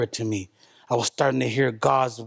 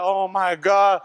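mortified gasp; 4 semitones higher, much slower than usual. Retold or imitated. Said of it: "I was like".

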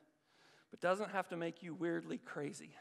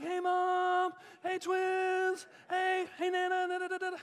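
put-on carefree child; 11 semitones higher, 3 dB louder than usual. Six-year-old calling to family from the ride, carefree. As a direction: call out like a six-year-old having fun.

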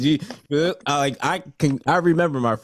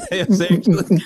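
laughing; 7 semitones higher, 5 dB louder, slower than usual. Real, not acted. Amused reaction to opera lessons.

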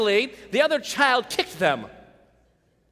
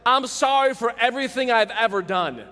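fake apology. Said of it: "Just a blanket all faux apology".

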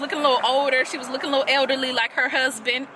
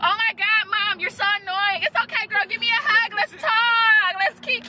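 mocking Iris and daughter; 7 semitones higher than usual. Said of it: "She like".

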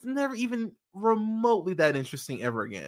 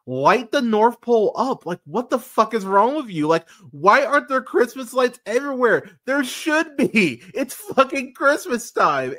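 louder, higher frustrated rant at the screen; exasperated rant; 5 semitones higher, 5 dB louder than usual. Retold or imitated. Yelling at the screen about lights at the North Pole, exasperated. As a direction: vent at the movie, building heat. Ranting at the movie.

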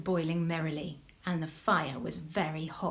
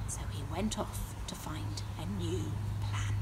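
hushed storytelling whisper; 4 semitones lower, 6 dB quieter than usual. A narrator's reading. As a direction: whisper the narration. Whispered narration aside.

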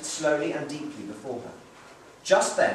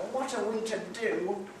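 weary mother near tears; 5 semitones higher, 4 dB quieter than usual. Acted. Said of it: "she started to weep".

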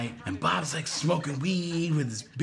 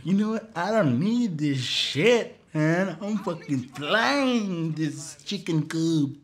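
Richie voice; 4 semitones higher than usual. Retold or imitated. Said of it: "He's like".

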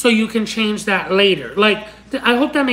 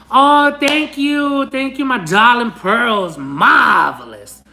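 dramatic thanks; 3 semitones higher, 3 dB louder, slower than usual. Pretend. Over-the-top thanks to viewers.

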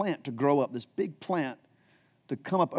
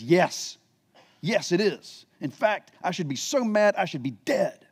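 mock-petulant Jonah, pitched higher; drama queen Jonah; 4 semitones higher than usual. Jonah sulking back at God, a mock drama queen. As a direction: ham up a sulky, overdramatic prophet. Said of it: "he's a bit of a drama queen".

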